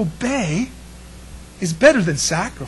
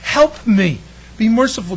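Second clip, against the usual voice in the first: pleading sinner; 3 semitones higher, 3 dB louder than usual. Retold or imitated. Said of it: "this person that says".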